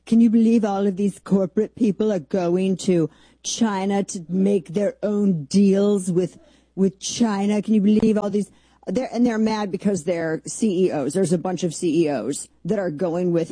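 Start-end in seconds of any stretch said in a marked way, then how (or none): 0.1-8.5 mocking media outrage. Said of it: "The way the progressive media is talking".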